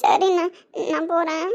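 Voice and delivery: tearful, resigned farewell. Acted. Sister takes leave of brother, tearful. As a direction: take leave on the edge of crying. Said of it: "ஆனா அழாதடாமா".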